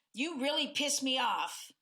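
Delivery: mildly irritated accusing tone; angry tone. Shown as a demonstration. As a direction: let some heat into it. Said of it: "in that tone as compared to".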